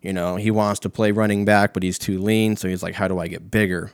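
usual speaking voice

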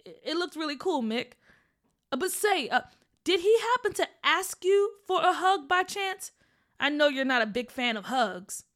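dad voice. Acted. Dad gently asking.

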